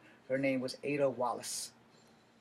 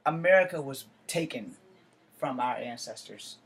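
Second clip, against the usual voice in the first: emphatic outcry; 5 dB louder than usual. Real, not acted. Angry rant about stolen land.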